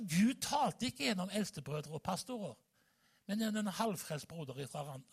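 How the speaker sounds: normal talking voice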